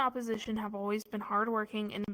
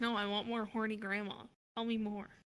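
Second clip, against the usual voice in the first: mock disappointed tone, said quieter; 4 dB quieter than usual. Imitating another speaker who just answered a: imitating a disappointed voice. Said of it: "He sounds so disappointed".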